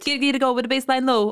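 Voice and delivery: London MC hype voice; London MC accent. Pretend. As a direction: spit it like a London MC. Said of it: "That was like a full London accent there".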